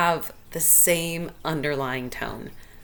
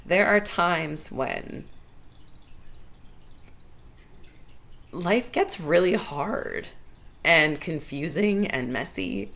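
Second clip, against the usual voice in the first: real emotion; slower than usual. Real, not acted. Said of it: "It is making me emotional".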